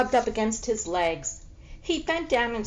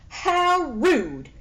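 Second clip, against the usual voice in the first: high, louder offended cry; indignant gasp; 8 semitones higher, 6 dB louder than usual. Acted. Flora, offended by the cat, cries out indignantly. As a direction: gasp at the rudeness.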